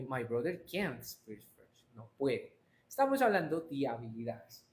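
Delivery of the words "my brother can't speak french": slow repeat. Shown as a demonstration. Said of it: "O mi".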